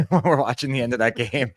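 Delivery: laughing while telling a story. Real, not acted. Podcast co-host recalls watching the chaotic finish, laughing.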